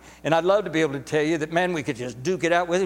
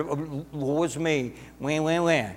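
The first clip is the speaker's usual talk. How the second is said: a lightly mocked self-pitying whimper; mock whining lament; slower than usual. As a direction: whine it as a mock sob, wah wah. Mocking a fearful complainer.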